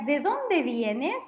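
"¿De dónde vienes?" muy despacio, con d suave ð y subida final; pregunta muy lenta. Shown as a demonstration. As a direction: silabeando la pregunta para alumnos. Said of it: "Sería". (pregunta modelo, muy lenta)

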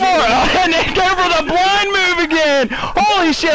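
high, sarcastic taunting voice; sarcastic mockery. Real, not acted. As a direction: fake shock at their jumping. Mocking enemy's predictable move.

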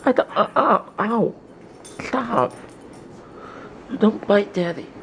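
high, loud startled scolding; loud high-pitched scold; scolding the dog. Real, not acted. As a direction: yelp and tell the puppy off. Dog biting him.

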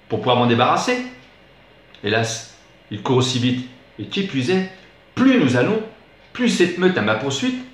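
lively recited verse, slowing and softening at the end; poem recitation. Acted. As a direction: tell the chase like a stage monologue, then let it die away. (récitation de poème, vive puis plus douce à la fin)

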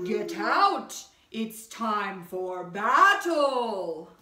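loud, slow heroic knight; stagey fake archaic declaiming. A narrator's reading. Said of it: "cried the knight".

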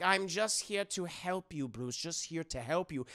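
put-on light German accent; placating German-accented therapist; hint of a comic German doctor; Hugo Strange. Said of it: "a very thick German accent".

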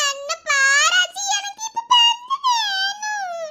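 slow wailing whine; crying child. Acted. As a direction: stretch the words through crying. (பாட்டியிடம் பந்து கேட்டு மெதுவாக அழுகிறது)

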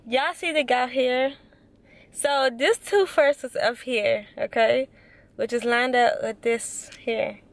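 lip held back by finger; talking with stretched mouth corner; finger pulling lip aside. Real, not acted. Seen 0: Finger pulls lip corner aside, showing braces, throughout labelled words.

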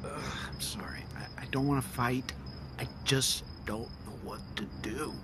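husband whispering sorry after the fight; defeated whisper. Acted. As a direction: breathe the apology, all fight gone. Husband deflated, whispering apology.

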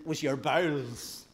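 drawn-out northern Irish accent. Shown as a demonstration. Preacher naming the seat of emotions, northern accent. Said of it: "I can only say this in a northern accent".

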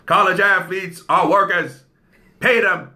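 lightly imitated Bernie Sanders accent; a hint of a Bernie Sanders impression. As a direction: attempt a senator's accent, firm and declarative. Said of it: "my Bernie Sanders, um, imitation".

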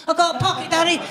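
put-on a three-year-old repeating herself proudly; toddler voice. Daughter showing off her coat pocket, in a lightly voiced toddler voice. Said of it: "following me around the house saying".

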